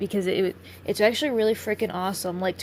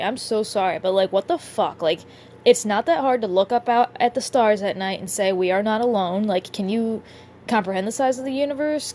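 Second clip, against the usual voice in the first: exasperated rant; 5 dB louder than usual. Real, not acted. Ranting at humans who never question.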